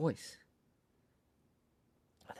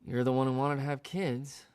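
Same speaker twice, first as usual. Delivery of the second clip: angry dad; 6 dB louder than usual. Retold or imitated. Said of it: "I hear my dad say".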